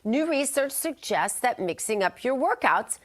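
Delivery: upbeat morning show health news read; news anchor read. Acted. Anchor opens the health news segment for viewers, bright news read. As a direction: deliver the health headlines like a TV anchor.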